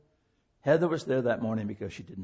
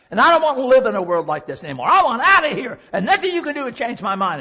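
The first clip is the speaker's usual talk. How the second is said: rising higher and louder into a desperate cry; distraught teen girl; 7 semitones higher, 9 dB louder than usual. Retold or imitated. Preacher voicing Heather's desperate cry to the congregation. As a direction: plead like a hopeless girl at the end. Heather voiced in despair, gun.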